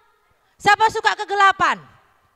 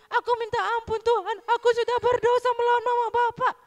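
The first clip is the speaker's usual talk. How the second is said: put-on high, whiny plea of a repentant child; whimpering kid owning up to God; child's tearful confession; 7 semitones higher than usual. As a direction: model a child praying in remorse, voice pitched up. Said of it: "Bilang begini sama Tuhan".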